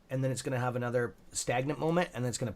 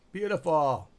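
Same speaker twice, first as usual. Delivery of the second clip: higher, louder burst of approval; delighted exclamation; 4 semitones higher, 7 dB louder, slower than usual. Real, not acted. Streamer cheering the stock move, delighted. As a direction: exclaim it out loud with relish.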